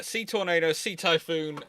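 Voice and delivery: ordinary delivery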